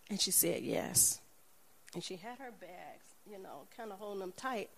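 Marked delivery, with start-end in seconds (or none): 0.6-1.2 breathy whispered yes; soft unvoiced yes. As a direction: answer under your breath. Woman quietly accepts.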